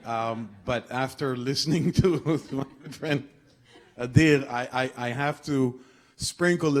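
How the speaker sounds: a brief chuckle slipped into the words; laughing lightly. Real, not acted. The negotiator, amused by his friend's gloom, chuckling.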